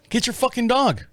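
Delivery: high-pitched replay of a holler; mock yell. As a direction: jokingly call out to absent neighbors.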